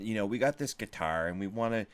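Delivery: light put-on Chicago accent; lazily hammed Chicago pawn broker. Pawn shop guy pitching the guitar, in a Chicago accent. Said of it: "I'm doing the Chicago accent".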